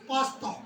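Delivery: पास्ता with a plain final a; pasta said right. Shown as a demonstration. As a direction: say पास्ता cleanly as the model. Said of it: "पास्ता नहीं कहना इसे". (पास्ता सही उच्चारण)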